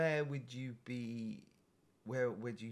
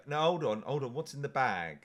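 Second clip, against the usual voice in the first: firm stop; 5 dB louder than usual. Retold or imitated. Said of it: "I now have to go".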